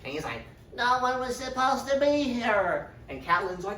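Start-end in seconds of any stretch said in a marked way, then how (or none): 0.8-2.9 high, odd creepy assassin voice; a hunched killer surprised; startled assassin. Retold or imitated. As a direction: squeak it out caught red-handed. Assassin caught in act.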